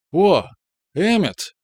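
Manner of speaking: tipsy, high excited call; drunk greeting. A narrator's reading. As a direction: wave and call out merrily. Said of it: "Пьяная".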